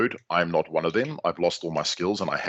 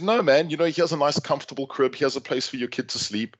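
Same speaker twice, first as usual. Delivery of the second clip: friendly shop assistant; 5 semitones higher than usual. Retold or imitated. Shop staff voiced in story.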